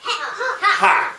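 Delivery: high, loud defiant scoff; hammed-up bold defiance. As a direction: fling the syllable back at the judge. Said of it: "And she said".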